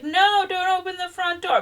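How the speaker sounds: put-on high, loud panicked cry at the kid; mother shrieking at her son to stop. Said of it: "and she's like".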